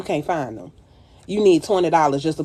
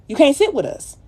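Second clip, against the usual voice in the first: much higher, louder, with SIT punched; emphatic snub on sit; 8 semitones higher, 4 dB louder than usual. Acted. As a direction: fling the snub out loud. Repeating the snub line louder.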